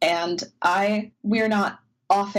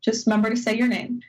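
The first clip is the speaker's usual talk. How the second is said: 1 brisk crew member; 3 semitones higher, faster than usual. Retold or imitated. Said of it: "the crew member is like".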